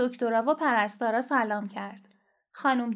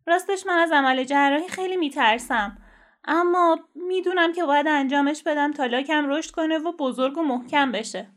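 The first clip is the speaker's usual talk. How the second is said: lightly voiced young turtle, slightly raised and earnest; 3 semitones higher, 3 dB louder than usual. Franklin admits fearing surgery to the doctor, earnest. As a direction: admit fear bravely in a light character voice.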